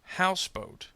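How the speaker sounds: "Houseboat" with HOUSE high, boat weaker; first-part stress. Shown as a demonstration. Teacher gives compound word example, "Houseboat" stressed on HOUSE. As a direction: put the beat on HOUSE in "Houseboat". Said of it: "on the first part of the compound".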